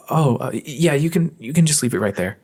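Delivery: lightly breathy high flustered voice; a hint of a shy anime girl; high cute anime girl. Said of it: "It's very breathy".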